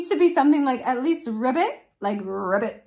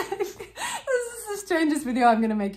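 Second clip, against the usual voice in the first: laughing through the words; giggling while admitting it; 5 semitones higher than usual. Real, not acted. Laughing at strange video.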